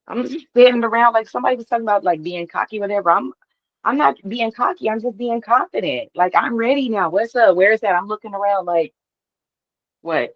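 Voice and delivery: high, bouncing, excited confidence; hyped and ready, no apology; riding a high of confidence; fired up. Real, not acted.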